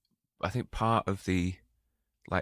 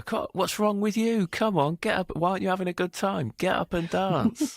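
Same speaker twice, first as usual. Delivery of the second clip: high-pitched mock nagging; pushy wedding guests; 12 semitones higher than usual. Guests coaxing him onto the dance floor, high mock nagging. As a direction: mimic someone badgering a friend, pitched way up.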